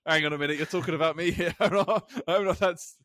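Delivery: acted indignant interruption; indignant outburst. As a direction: blurt it out as if overhearing talk about yourself. Acted startled reaction to overhearing his name.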